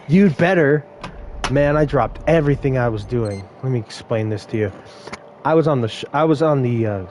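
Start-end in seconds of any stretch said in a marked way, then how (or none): 0.1-0.8 sassy warning. Retold or imitated. Customer warns the worker.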